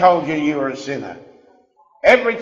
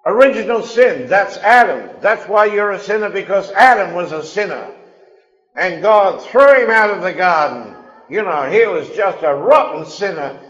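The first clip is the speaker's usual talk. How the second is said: raised, higher voice parroting a condemning preacher; mocking the religious line; 3 semitones higher, 4 dB louder than usual. Preacher to congregation, parroting religion's accusation, mock-condemning. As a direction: throw their accusation back mockingly. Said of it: "when I hear religion telling people".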